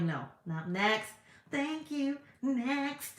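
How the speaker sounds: mock dismissal. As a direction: breezily send a suitor away. Acting out rejecting drinking men.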